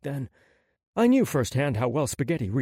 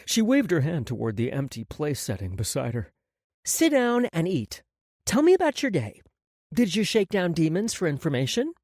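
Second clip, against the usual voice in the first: light, higher woman's voice; Maggie's voice; 5 semitones higher than usual. A narrator's reading. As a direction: lift the voice into Maggie.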